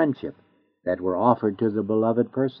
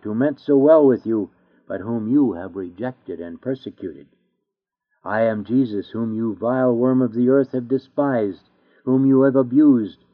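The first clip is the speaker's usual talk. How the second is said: stern, rising judgment with punched accusations; terrible voice. Acted. The judge reproaches the sinner who rejected him, stern. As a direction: accuse them line by line, voice swelling. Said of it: "he will call them out with a terrible voice".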